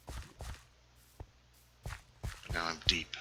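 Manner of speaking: low, slow hushed explorer narration. Pretend. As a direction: murmur it slowly, half whispered. Narrating deep into taiga, hushed.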